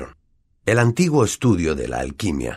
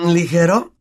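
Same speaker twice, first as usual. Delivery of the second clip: incredulous; 10 semitones higher, 5 dB louder, slower than usual. Acted. Ron incredulous.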